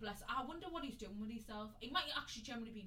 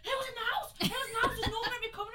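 very high, loud panicked yelling; imitating berserk mum; 12 dB louder, much faster than usual. Mum on phone racing home after prank, frantic high yelling. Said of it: "She went berserk".

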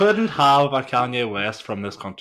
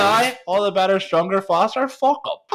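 mocking; 8 semitones higher, 3 dB louder than usual. Mocking a rapper's boasting.

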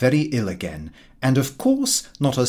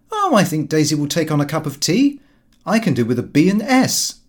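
offhand Lupin; 4 semitones higher, 5 dB louder than usual. Acted. Lupin offhand to his parents.

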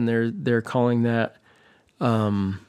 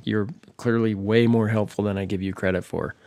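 sarcastic; 2 semitones lower than usual. Real, not acted. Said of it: "he said sarcastically".

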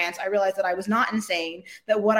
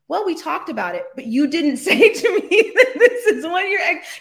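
half-laughing through the clients' excuse; 7 semitones higher, 5 dB louder than usual. Retold or imitated. Quoting the French clients' excuse while laughing at it. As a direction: laugh your way through their excuse, higher and louder.

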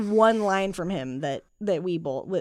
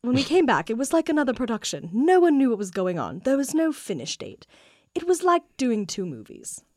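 put-on British accent; 4 semitones higher than usual. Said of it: "he's just gonna have to be British".

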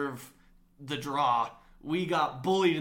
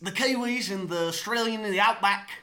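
light put-on Australian-New Zealand lilt, higher; mock Kiwi accent; 7 semitones higher, 4 dB louder than usual. Hosts trading mock Australian accents, higher pitched. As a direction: pretend tourist headed down under. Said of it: "I can't do those accents".

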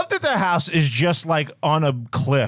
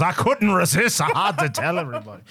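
put-on Scottish accent; 2 semitones higher than usual. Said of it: "I'm doing Scotland now".

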